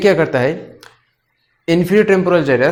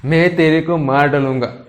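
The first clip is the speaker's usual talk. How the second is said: mildly angry threat, barely raised; mock anger. Shown as a demonstration. Teacher demonstrating an angry threat to students, mildly angry. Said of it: "मैं गुस्से में हूँ".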